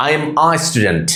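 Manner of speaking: slow, "a" pronounced "ah"; article as AA. Shown as a demonstration. Teacher modelling the article in a sentence, "a" as "ah". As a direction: say "a" as আ, not "ay". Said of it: "আ sound হবে".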